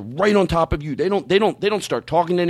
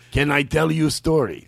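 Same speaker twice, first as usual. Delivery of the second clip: measured, accented impression of a man; imitated acquaintance's voice. Man at the shop asks to tell a story, in imitated voice. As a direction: imitate his careful foreign-sounding speech. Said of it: "This is how he actually talks".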